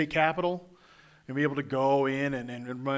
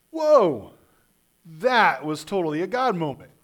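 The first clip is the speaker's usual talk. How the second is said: 1 amazed exclaim; 5 dB louder than usual. Pretend. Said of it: "we need to be like".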